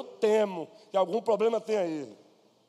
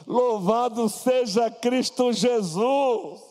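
slow, louder ringing praise; fervent praise; 3 semitones higher, 5 dB louder, much slower than usual. Real, not acted. Preacher praising Christ before the congregation, fervent and slow. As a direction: lift it up as worship.

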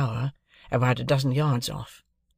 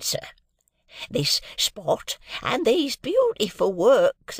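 put-on high, slow, quavering old man; 7 semitones higher, slower than usual. A narrator's reading. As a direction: cry out like a proud very old man. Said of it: "cried the old man".

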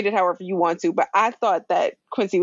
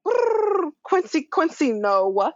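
high, trilled emcee call; mock hype announcer; 7 semitones higher, much slower than usual. A runway emcee hyping up the crowd, mock announcer voice. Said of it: "the M C is going".

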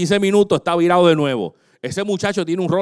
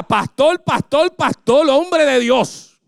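high, slow begging voice of a friend in jail; pleading jailed friend; 6 semitones higher, 3 dB louder, much slower than usual. Retold or imitated. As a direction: beg the pastor from a jail call. Pastor voices Ike begging from jail. (amigo suplicando desde la cárcel, voz aguda)

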